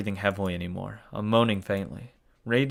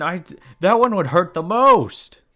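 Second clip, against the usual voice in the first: real dread; 6 semitones higher, 8 dB louder, slower than usual. Real, not acted. Dreading the chosen nail.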